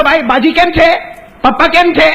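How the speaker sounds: worried question at the hospital; anxious son. Acted. Son asking about father.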